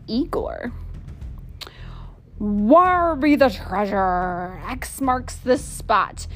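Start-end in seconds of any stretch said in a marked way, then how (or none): 2.4-6.3 pirate voice. Acted. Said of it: "stormed Big Pirate Pete".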